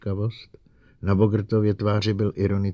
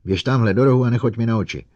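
loud, fast shrieked orders; 4 semitones higher, 6 dB louder than usual. A narrator's reading. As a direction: shriek at the robot to back off. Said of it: "vřískla na robota".

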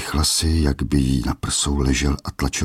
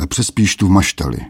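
a hint of a menacing king; mocking king; 4 semitones higher than usual. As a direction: send the lad off with a sneer. King sends the boy off.

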